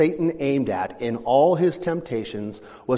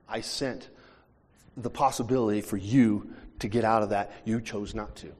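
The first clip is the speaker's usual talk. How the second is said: lower, softer patient God; God's calm voice; 4 semitones lower, 4 dB quieter than usual. Retold or imitated. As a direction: speak softly like a patient father. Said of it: "And God's going".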